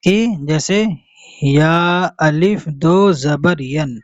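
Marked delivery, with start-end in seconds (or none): 1.4-4.0 "अलिफ" spoken aloud between "या" and "दो"; mistaken reading with alif. Shown as a demonstration. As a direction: show the error by sounding "अलिफ" as its own word. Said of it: "इसको इस तरीके से पढ़ते हैं".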